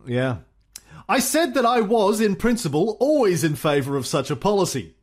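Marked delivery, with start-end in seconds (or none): 1.1-4.9 Churchill impression. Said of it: "my Churchill accent".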